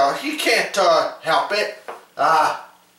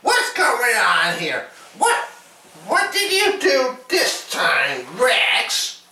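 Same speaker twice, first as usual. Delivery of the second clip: shouting; 5 semitones higher than usual. Pretend. Toy character shouts at Rex.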